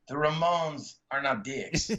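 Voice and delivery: slow, deliberate imitated Mexican accent. Lighting man sets the young fan straight, Mexican accent. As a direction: spell it out slowly in a put-on Mexican accent. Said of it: "had this really thick Mexican accent".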